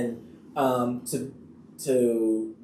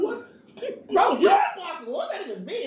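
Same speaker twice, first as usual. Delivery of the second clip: offended disbelief. Retold or imitated. Actor mimicking his offended reply to co-star, high and incredulous. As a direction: sound stung and confused.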